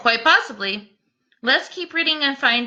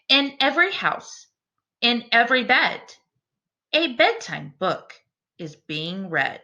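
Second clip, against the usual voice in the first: put-on rhyming read-aloud for children; storybook reading. A narrator's reading. Teacher reading a picture book to her class, storytelling voice. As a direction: read the verse to the class with gentle rhythm.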